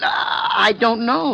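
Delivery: a cornered man's frightened shout; panicked denial. Acted. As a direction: cry it out high and loud in panic. Cornered killer denies.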